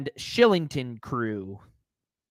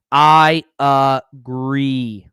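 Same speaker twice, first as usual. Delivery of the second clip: drawn-out mock agreement; 7 dB louder, much slower than usual.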